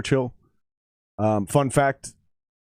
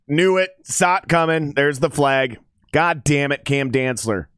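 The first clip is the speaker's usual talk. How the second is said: frustrated outburst; 3 semitones higher than usual. Real, not acted. Penalty flag on his team.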